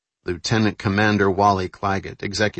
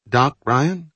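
put-on Asian accent; 7 semitones higher, 4 dB louder than usual. Carol calls out.

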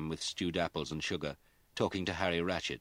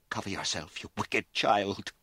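slow, louder, tearful scolding; between sobs; 4 semitones higher, 4 dB louder than usual. A narrator's reading. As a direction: scold through tears. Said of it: "she said between sobs".

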